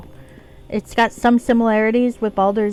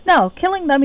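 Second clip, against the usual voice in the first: surprised no; 9 semitones higher, 6 dB louder than usual. Real, not acted. Surprised after checking her alignment.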